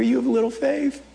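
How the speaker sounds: soft, affectionate teasing; proud and tender. Acted. Jesus holding Peter, softly and proudly chiding him. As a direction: gently chide a beloved student. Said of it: "he's proud of Peter".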